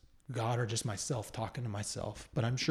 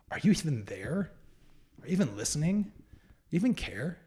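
mildly angry, higher-pitched questions rising in disbelief; retold angry prayer; 5 semitones higher than usual. Man retelling his bedside prayer to God, mildly angry. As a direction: challenge God, with a touch of hurt anger. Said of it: "it was angry".

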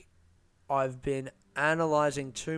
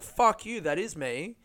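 combative retort; 4 semitones higher than usual. Retold or imitated. Comic's stage comeback to a doubter, high defiant curse. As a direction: fire back at the heckler. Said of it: "like I would have in a set".

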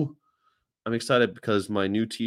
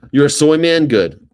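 mock tough shout; 4 semitones higher, 10 dB louder than usual. Mock tough questioner, loud.

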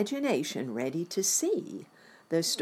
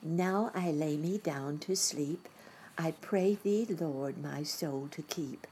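put-on child's bedtime prayer; 3 semitones higher than usual. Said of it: "said her good-night prayer".

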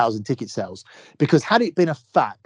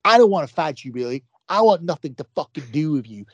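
imitating Billy. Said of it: "in that exact fucking voice".

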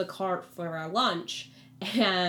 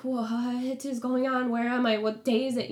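raised-pitch confused questioning; acted bewilderment; 6 semitones higher, 4 dB louder than usual. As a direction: retell waking up totally confused. Acts out waking confused in jail.

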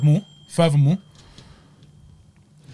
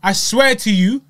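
enthusiastic; 5 semitones higher, 3 dB louder than usual. Real, not acted. Enthusiastic recommendation.

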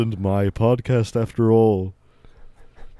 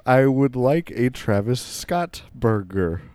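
slow careful model line; slower than usual. Shown as a demonstration. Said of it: "A little bit faster".

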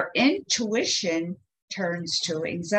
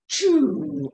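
deflating whoosh; 4 semitones higher, 4 dB louder than usual. Shown as a demonstration. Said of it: "I'm deflating it".

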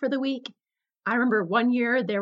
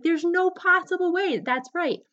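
angry disbelief; 8 semitones higher than usual. Retold or imitated. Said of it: "I was so angry".

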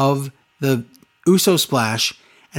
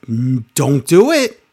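drawn-out plea. Retold or imitated. Retold plea to his brother.

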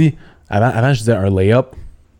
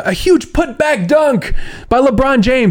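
much higher, slower, shouted English sportscaster call; hyped English play-by-play; 13 semitones higher, slower than usual. Retold or imitated. Analyst imitating an English broadcaster calling a LeBron dunk, high, slow and shouted. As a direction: belt it out like a TV announcer calling a dunk.

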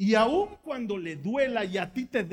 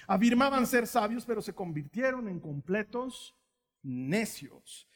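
scripture reading. Acted. Reading Romans aloud.

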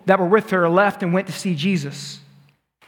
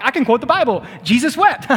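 put-on kid bragging; 5 semitones higher than usual. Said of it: "I was like".

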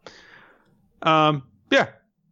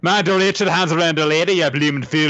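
higher, hammed-up Scottish-style scolding; exaggerated Scottish-like accent; 6 semitones higher, 4 dB louder than usual. Shown as a demonstration. Friend imagining the insulted lady's line in a high Scottish-style accent. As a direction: put on a broad, vaguely Scottish accent, pitched up. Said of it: "I guess Scottish, I guess".

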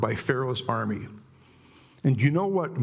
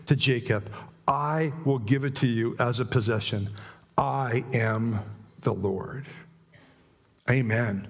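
emphatic scripture reading. Acted. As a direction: proclaim each I will like a promise. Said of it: "with my emphatic speech".

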